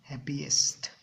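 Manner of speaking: whispered answer; voiceless hint to the class. Real, not acted. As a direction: breathe the word out voicelessly. Teacher giving the answer softly.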